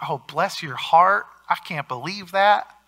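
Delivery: drawn-out Southern Midwest sympathy; lightly imitated Southern Midwest accent. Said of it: "Southern Midwest accent there".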